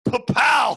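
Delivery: loud punchy sound effect; big, punched exclamation; triumphant "pa-pow". Retold or imitated. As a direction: burst it out like a showman's flourish. Imitates Hasselhoff revealing muscles.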